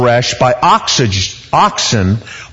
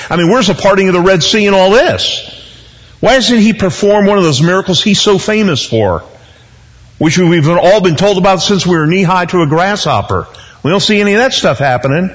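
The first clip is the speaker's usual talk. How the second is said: exasperated Gideon paraphrase; 8 semitones higher than usual. Retold or imitated. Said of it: "voices Gideon's complaint".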